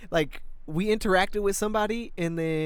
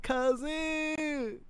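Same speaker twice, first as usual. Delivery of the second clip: greeting fellow goblin; 11 semitones higher, 4 dB quieter than usual. Retold or imitated. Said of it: "we was like".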